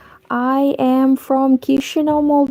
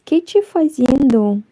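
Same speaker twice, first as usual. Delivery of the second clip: put-on Brazilian Portuguese accent; 2 semitones higher than usual. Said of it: "you can see that I can imitate some accents".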